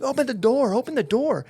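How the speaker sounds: high-pitched, urgent mock scream; retold screaming. Panicked passenger at the exit, retold screaming. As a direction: act out screaming to get out, slightly held back. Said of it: "I'm screaming at the top of my lungs".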